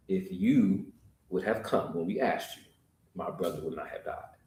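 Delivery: very soft, low and sorrowful; grieving reproach. Acted. Mary telling Jesus her brother died, soft and grieving. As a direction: let the grief pull it down.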